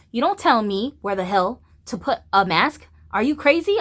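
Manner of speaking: rising angry rant, fast in places; a heated retold rant; retold telling off. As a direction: tell him off, building heat. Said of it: "I was like".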